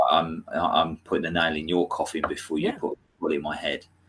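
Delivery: ordinary talk, nothing marked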